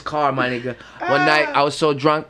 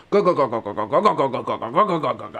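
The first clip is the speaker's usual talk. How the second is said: rhythmic go go imitation of a loose wheel; rattling wheel noise; 3 semitones lower, faster than usual. Hearing loose lug nuts, rhythmic imitated rattle. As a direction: mimic the wobbling tire. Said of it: "I'm hearing".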